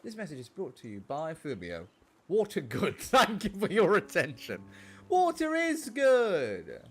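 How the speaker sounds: loud, high proclamation, slowing at the end; mock announcement. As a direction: proclaim the silly message at full voice. Mock sponsor announcement from viewer.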